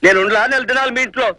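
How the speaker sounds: high-pitched, insistent objection; animated protest. Acted. Host protests at leaving so soon.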